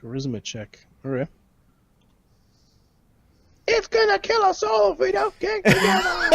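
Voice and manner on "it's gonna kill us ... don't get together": very high hammed-up wail; panicked pleading. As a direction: mock-desperate cry breaking into laughter. Acted panicked plea, breaking into laughter.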